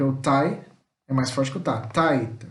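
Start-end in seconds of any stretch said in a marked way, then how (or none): 1.8-2.5 first syllable of "Taita" stressed; "Taita" with a drawn-out, emphatic first syllable. Shown as a demonstration. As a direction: lean on the "Tai" in "Taita", let "ta" drop. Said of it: "Você dá uma ênfase no tai".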